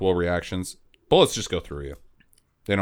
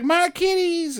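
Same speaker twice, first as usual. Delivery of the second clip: wailing cat lady; slower than usual. Retold or imitated. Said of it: "she's like".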